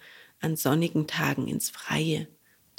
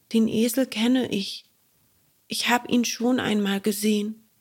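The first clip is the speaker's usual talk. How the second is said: embarrassed; 4 semitones higher than usual. Acted. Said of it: "ward verlegen und sagte".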